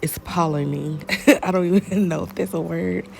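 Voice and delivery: congested, stuffy-nosed voice; talking through a blocked nose. Real, not acted. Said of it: "Sorry that I'm congested".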